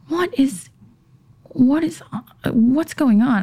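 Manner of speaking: high, hushed and fretful; half-whispered panic; anxious whisper. Retold or imitated. Wife wondering where husband is, high anxious whisper. Retelling her worried self-talk.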